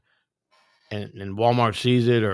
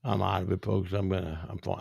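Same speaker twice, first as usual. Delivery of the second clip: nodding off; 2 semitones lower, 5 dB quieter than usual. Real, not acted. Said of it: "I can't believe I'm falling asleep".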